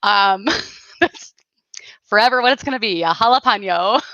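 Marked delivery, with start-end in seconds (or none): 3.0-4.0 playful accented jalapeno, rising at the end; odd non-Midwest accent. Real, not acted. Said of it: "that's a Midwest accent".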